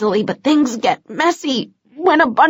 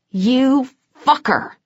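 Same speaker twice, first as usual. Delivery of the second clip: growling; 2 semitones higher, slower than usual. Acted. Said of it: "I growled".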